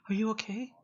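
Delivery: high-pitched, doting sweetheart voice; put-on high girlfriend voice, concerned; Danny. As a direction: fuss over a hurt partner in a high voice. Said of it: "she just goes".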